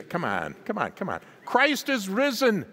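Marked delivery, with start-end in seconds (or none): 1.4-2.7 "Christ" hit much higher and louder; emphatic proclamation. Real, not acted. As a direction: lead the congregation in the emphatic call. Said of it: "say it with emphasis".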